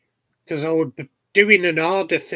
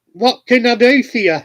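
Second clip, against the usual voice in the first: dancer's line; 6 semitones higher, 8 dB louder than usual. Retold or imitated. Dancer asks mate again, louder.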